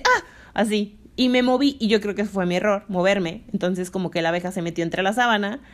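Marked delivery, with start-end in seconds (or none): 0.0-0.2 a little, short startled gasp; just a tiny "Ah" of fright; the modest yelp she really gave; small startled ah. Retold or imitated. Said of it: "solo hice ... así".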